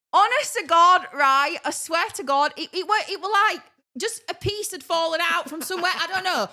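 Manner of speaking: laughing through the words; giggling while she swears. Real, not acted. Laughing while recounting the mess.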